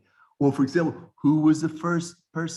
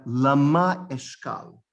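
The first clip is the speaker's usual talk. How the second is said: Lama Eshkal, drawn out with Lama stressed on MA; accent on last syllable; 4 dB louder, slower than usual. Shown as a demonstration. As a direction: slowly demonstrate Lama with its final syllable held. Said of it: "Aleph sounding".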